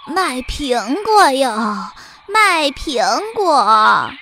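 slow, drawn-out hawker's cry; calling out wares. Acted. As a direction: call out apples like a village peddler. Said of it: "叫着".

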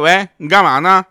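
loud bright phone hello; phone call greeting. Retold or imitated. Calling friend Qiqi on the phone, loud hello.

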